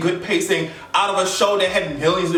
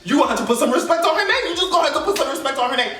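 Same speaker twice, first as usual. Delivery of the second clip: fast, rising, hyped-up quote; excited retold exclamation; 4 semitones higher, faster than usual. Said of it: "I was like".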